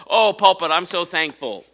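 mock praise to an object; sarcastic thanks to the pulpit; mock gushing to a pulpit. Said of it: "I'm not thankful for, to this pulpit".

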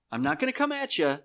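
high-pitched defiant possum voice. Acted. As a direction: stand your ground in a high voice. Voices the possum standing its ground.

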